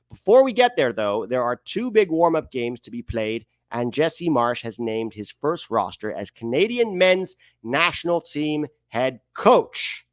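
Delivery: exaggerated article read; put-on reading voice. Host reading a roster article aloud, hammed-up delivery. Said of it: "still talking like this".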